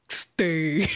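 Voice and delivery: low, drawn-out mock echo of the name; mocking imitation. Teasing a co-host for how they said Steve, mock imitation. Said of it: "Why you gotta say it like that?".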